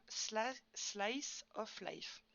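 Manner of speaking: slow English title in a French accent; accent français en anglais. Real, not acted. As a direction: pronounce it carefully, with a real French accent. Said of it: "attention, mon accent, euh, magnifique". (accent français, en détachant lentement)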